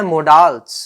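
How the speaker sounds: modals said as "mo-dals" with a retroflex d and long o; first way to say modals. Shown as a demonstration. Teacher shows the students one way people say modals. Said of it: "ये तीन प्रोनंसिएशंस हैं".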